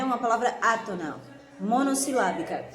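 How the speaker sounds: amused, laughing through the correction. Real, not acted. Teacher laughing at her own slip in front of the class. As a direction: chuckle while you fix the slip.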